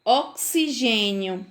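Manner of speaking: "Oxigênio" slowly as ok-si-GÊ-nio; "Oxigênio" drawn out, x as k plus s. Shown as a demonstration. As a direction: model "Oxigênio" with a clear ks. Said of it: "como que eu falasse o C S".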